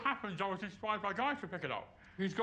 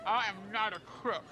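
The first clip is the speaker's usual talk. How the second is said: a light American politician voice; American impression. Shown as a demonstration. American accent demo, quoting a president. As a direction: deny it like a cornered president. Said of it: "you do an American accent".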